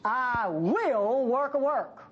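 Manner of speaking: slow, measured divine promise; lightly voiced God, slow and solemn. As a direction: speak each word slowly, as God. God's promise quoted slowly.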